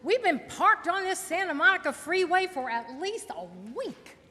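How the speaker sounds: uptalk. Pretend. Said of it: "I'm trying out some of my new California speak".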